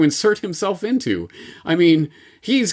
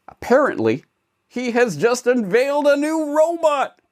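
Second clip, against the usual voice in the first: higher, hyped fanboy YouTuber voice; gushing tech fanboy; Johnny YouTuber voice; 3 semitones higher than usual. Acted. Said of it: "No, I am not Johnny YouTuber".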